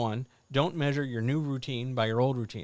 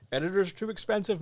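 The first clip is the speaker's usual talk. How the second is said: incredulous; 7 semitones higher, faster than usual. Acted. Incredulous echo of question.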